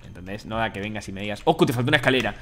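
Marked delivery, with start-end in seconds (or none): 1.4-2.3 louder, hurried mocking tone; mock rushed viewer. Streamer mocks a pushy viewer, hurried imitation. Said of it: "Así todo apurado".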